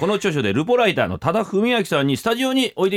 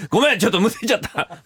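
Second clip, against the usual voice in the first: sputtering after choking; coughing after swallowing wrong; choking on a drink; 4 semitones higher than usual. Real, not acted.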